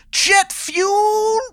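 slow, very high drawn-out promo; hammed-up wrestler. Wrestler hyping himself on the mic, in a slow high drawl. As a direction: drag it out like a wrestling hype man.

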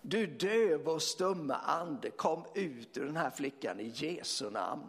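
slow, deliberate command to a spirit; clear commanding voice. Retold or imitated. Commanding the deaf spirit to leave the girl, clear voice. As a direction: speak with calm authority, word by word. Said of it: "med klar stämma".

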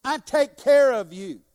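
slow, promising tone; slow reassuring voice of God. Acted. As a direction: speak as God comforting, slowly. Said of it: "So God says".

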